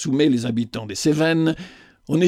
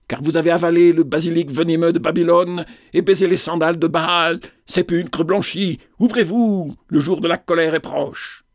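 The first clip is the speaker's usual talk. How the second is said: raucous prophetic cry, pitched higher; hoarse, terrible cry; 3 semitones higher than usual. Acted. Ghostly woman at the castle gate crying out, hoarse and terrible. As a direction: call out like a possessed prophetess at the gate. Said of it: "rauque et terrible, le fantôme cria".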